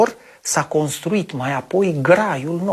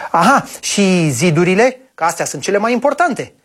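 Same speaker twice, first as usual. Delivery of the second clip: impatient question; 4 semitones higher than usual. Acted. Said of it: "întrebă cu nerăbdare băiatul".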